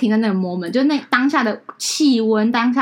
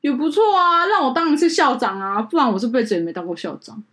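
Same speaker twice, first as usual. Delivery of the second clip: laughing groom; 3 semitones higher than usual. Retold or imitated. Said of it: "他笑笑跟我说".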